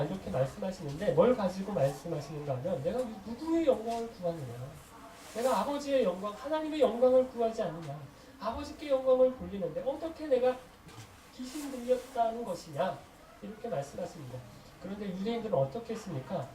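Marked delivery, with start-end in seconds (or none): 2.8-13.0 higher-pitched rhetorical challenge; acted rebuttal. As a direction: press each question as a protest. Acts out Jesus' indignant rebuttal. (반문하듯 따지는 말투)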